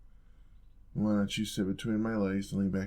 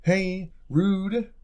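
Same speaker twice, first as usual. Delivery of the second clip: much higher and louder, playfully outraged; mock offended yelp; 10 semitones higher, 8 dB louder than usual. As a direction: yelp it like you're teasingly insulted. Mock offended protest at partner.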